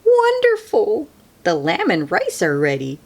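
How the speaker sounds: grandma welcoming her granddaughter; lightly voiced grandma. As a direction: greet her granddaughter with joy.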